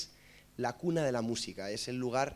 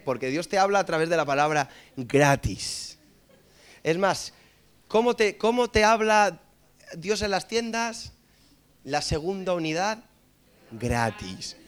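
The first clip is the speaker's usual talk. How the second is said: booming preacher proclamation, louder and higher; hammed-up pulpit delivery; mock sermon; 3 semitones higher, 7 dB louder, slower than usual. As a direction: preach it like a televangelist to the congregation. Mock preacher continues sermon on gratis.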